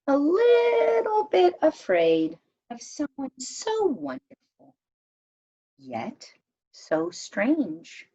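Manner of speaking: gentle, lilting read-aloud narration; storybook reading. A narrator's reading. Narrator reading a legend to friends, lilting storytelling. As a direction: read it like a picture book to a circle of kids. Reads picture book aloud.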